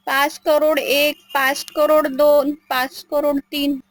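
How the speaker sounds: slow counting auctioneer. Acted. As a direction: draw out each count slowly.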